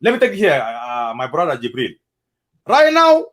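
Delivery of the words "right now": loud, high outburst; sudden loud high cry; raised voice. Real, not acted. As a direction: cry out the words over the others. Heated plea for unity.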